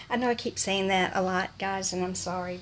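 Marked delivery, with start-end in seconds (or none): none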